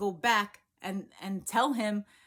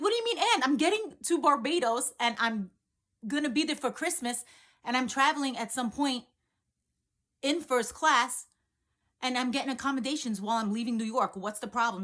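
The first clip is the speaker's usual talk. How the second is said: high, loud indignant disbelief; excited protest; 3 semitones higher, 4 dB louder than usual. Retold or imitated. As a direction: push back, pitched up and loud.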